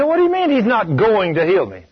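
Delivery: mildly protesting, as if contradicted; taken aback. Retold or imitated. Woman to preacher who denied her healing, indignant. Woman objects to being told no.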